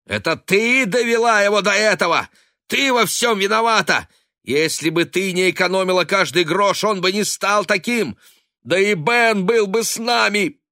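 high, loud furious yelling. A narrator's reading. Daughter screaming at her father in rage. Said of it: "с той же дикой яростью".

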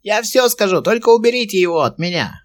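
a cornered goblin rasping its surrender; hoarse goblin voice. A narrator's reading. Goblin with a sword at its throat, hoarse high voice. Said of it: "хрипло отозвался гоблин".

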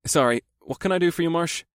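be sweet while swallowing anger; forced politeness. A narrator's reading. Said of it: "my politest tone of voice".

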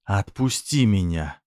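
slow, tense hiss, angry and scared; hiss of anger and fear. A narrator's reading. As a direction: hiss it out, fighting her own fear. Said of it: "прошипела она дрожащим от гнева и страха".

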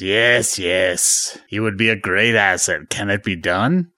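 lightly voiced villain master; Emperor. Emperor weighing Vader's plan to turn Luke, light impression. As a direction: put on a hint of a scheming ruler. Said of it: "And then he says".

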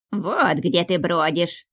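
drawn-out scolding cry, understated squeal; a toned-down screech at someone found wandering; mild shriek. A narrator's reading. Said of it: "оглушительный женский визг".

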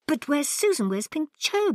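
high, urgent and alarmed; anxious cry. Acted. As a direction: cry out in worry. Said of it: "Barbara cried".

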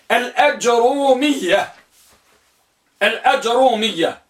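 الأجرومية with short a on the hamza, silent vowel on ج; first vocalization. Shown as a demonstration. Teacher dictating the first type, carefully pronounced. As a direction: say الأجرومية with a light single ر. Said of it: "الأجرومية بفتح الهمزة".

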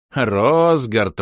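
name called out loud and bright; loud joyful call. Acted. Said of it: "растянул губы в радостной улыбке".

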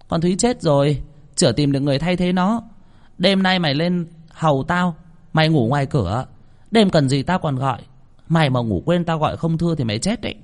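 high-pitched, haughty threatening orders; imperious young mistress. Acted. Daughter ordering the cook to serve her, threatening. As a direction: lay down the law in a high voice.

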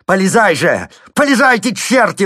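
building to a very high, loud yell. A narrator's reading. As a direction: bawl at the peasants. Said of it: "вопил он".

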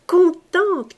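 drawn-out joy. A narrator's reading. Repeated contente, drawn out.

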